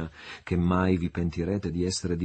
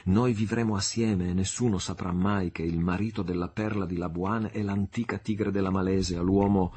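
lightly voiced Marianna, impassioned. Marianna vowing to become Sandokan's wife, ardent. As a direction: swear it with rising passion.

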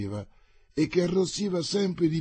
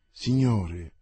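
through tight lips. Acted. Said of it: "a labbra strette e con sguardo scintillante".

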